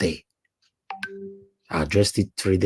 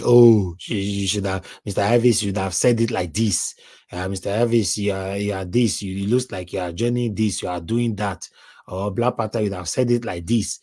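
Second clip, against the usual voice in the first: mock commenter complaint. Host mimicking critics in the comment section, mock complaint. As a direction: lightly imitate a fault-finder listing corrections. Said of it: "you staying on the comment section and be saying".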